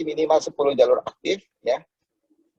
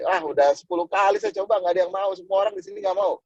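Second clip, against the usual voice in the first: mock complaining; 3 semitones higher than usual. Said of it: "Padahal dia baru nyoba".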